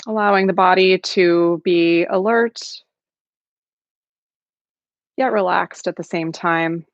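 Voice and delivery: calm, unhurried meditation guidance with long pauses; guided meditation. Acted. Facilitator settling an online group into practice, calm guided meditation. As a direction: gently settle listeners into the practice, leaving space between phrases.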